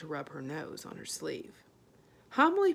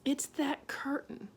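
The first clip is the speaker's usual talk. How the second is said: cried out; 7 semitones higher, slower than usual. A narrator's reading. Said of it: "cried Homily".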